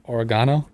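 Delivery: "Oregano" said British-style, o-re-GAH-no, as a question; imitated British pronunciation. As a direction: try "Oregano" with the stress on GAH. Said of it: "Is that how you say that?".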